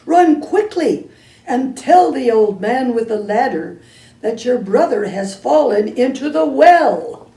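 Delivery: mother hearing her son fell in; alarmed. Acted. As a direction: gasp in shock and give orders.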